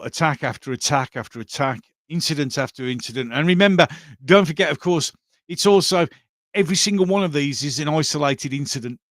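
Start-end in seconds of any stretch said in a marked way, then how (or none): 3.3-9.0 louder, raised pitch with mocking sarcasm; sarcastic reminder. Real, not acted. Vlogger mocking officials with a louder sarcastic tone. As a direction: sneer at the official excuse, a touch louder.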